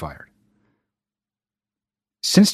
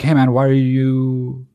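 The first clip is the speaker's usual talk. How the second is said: mocking old friend; 4 semitones lower, slower than usual. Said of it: "they were like".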